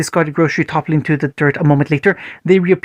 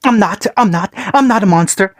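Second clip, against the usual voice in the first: cried out; 4 semitones higher than usual. Acted. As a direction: wail it into his father's shirt. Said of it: "Naruto cried out".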